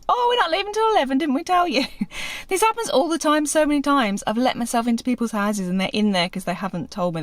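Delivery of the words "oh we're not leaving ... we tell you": quoting the owner. Retold or imitated. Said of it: "her kids like".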